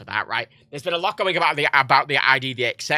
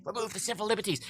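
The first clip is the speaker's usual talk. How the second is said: hushed, higher and much softer; furtive mock aside; 4 semitones higher, 11 dB quieter than usual. Mimicking government acting under the table, furtive and hushed. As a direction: sneak it through under your breath. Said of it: "under the fucking table, like".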